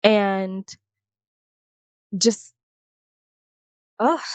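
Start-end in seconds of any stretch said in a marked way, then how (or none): 4.0-4.2 exhaled groan of disgust; disgusted ugh. Real, not acted. Voicing disgust at the talk.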